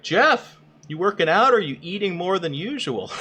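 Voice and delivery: high, teasing put-on voice of a chatter; mocking chatter voice.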